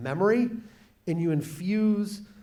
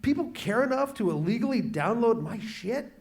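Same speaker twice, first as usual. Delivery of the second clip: cheeky glee; 6 semitones higher than usual. Retold or imitated. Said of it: "It's like".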